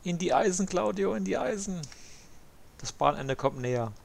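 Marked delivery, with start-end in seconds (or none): 0.0-1.8 higher-pitched teasing call; playful urging. Pretend. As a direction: egg him on to hit the brakes. Calling to friend Claudio to brake.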